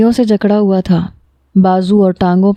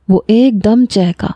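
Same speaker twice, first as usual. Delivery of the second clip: ordinary delivery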